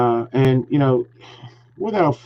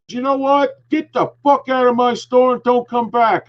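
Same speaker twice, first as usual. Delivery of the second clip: much higher, sharp angry order, imitating; mock angry manager; 11 semitones higher than usual. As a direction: imitate the manager kicking him out, pitched way up. Manager throws him out.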